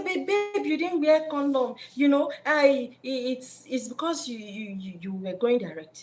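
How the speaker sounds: mock-flustered girlfriend; pleading girlfriend. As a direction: stammer the blame onto him. Woman explaining pregnancy to man.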